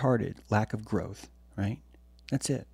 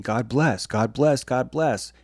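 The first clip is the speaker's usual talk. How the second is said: mock pious blessing; 3 semitones higher, 4 dB louder, slower than usual. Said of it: "One is constantly saying".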